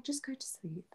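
soft, laughing brush-off; mock the calm advice; softly laughed quote; dismissive boyfriend. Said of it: "She was like".

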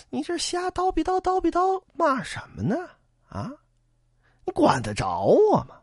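arrogant taunt. Acted. Boatman mocking the bandit, arrogant and jeering. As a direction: lord it over him.

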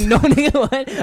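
high, loud, laughing disbelief; retold shocked reaction. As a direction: blurt it out incredulously through a laugh. Retold shocked reply to doctor's question.

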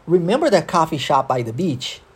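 connected English rhythm, "remember" peaking, "beach" lifted at the end; model rhythm and intonation. Shown as a demonstration. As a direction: question with stress on "remember", rising on "beach". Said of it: "existe aqui um ritmo, uma entonação".

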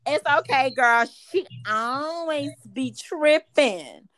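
slow, sassy "always be tripping"; sassy reply. Retold or imitated. Huge lady boy reassuring the comedian, slow and sassy. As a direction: lay it on with sass.

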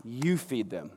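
Jesus answering Peter, calm and firm; calm command. Retold or imitated. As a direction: say it simply and gently. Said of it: "And Jesus said".

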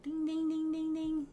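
high, bright-eyed squeal breaking into a laugh; excited Phoebe. Retold or imitated. Phoebe cheering Rachel's roommate offer, excited and laughing. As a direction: cheer the idea, giggling.

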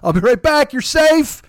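high, loud, urgent reassurance; Clarice. Acted. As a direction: call it out to a trapped captive. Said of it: "When fucking Clarice goes".

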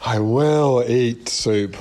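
very slow, drawn-out mock Miss Havisham; hammed-up jilted spinster, slow and solemn; Havisham impression. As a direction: drag each word out like a faded bride. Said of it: "You go".

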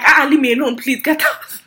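high, annoyed brush-off; mock angry. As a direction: playfully act out an irritated dismissal. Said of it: "I know you're angry".

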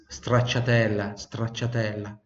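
"stracciatella" said slowly with the Italian TCH; slow Italian word. Shown as a demonstration. Teacher shows the Italian flavor name, slowly. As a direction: spell out "stracciatella" gently. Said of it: "O meu preferido é stracciatella".

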